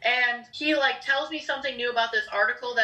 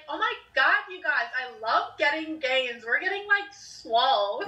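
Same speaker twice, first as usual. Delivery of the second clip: put-on Valley Girl voice. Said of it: "we do a Valley Girl voice".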